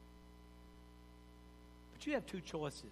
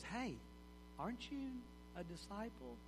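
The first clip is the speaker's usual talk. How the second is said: accusing bystander; 3 semitones higher, 12 dB quieter than usual. Acted. A bystander at the fire quietly asking Peter if he is a disciple. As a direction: lean in and quietly accuse him.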